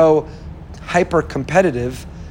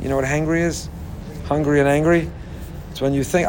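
ordinary talk

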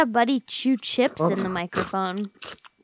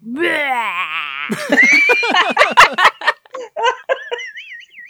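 mollusk slurp noise; 8 semitones higher, 5 dB louder than usual. Pretend. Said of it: "That is very mollusk-esque".

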